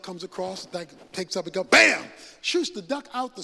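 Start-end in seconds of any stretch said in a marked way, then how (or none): 1.7-2.0 loud mock gunshot; gunshot bam. Banker's shotgun going off in the story, loud. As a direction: pop it out like a shotgun blast.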